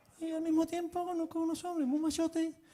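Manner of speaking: put-on high thin voice.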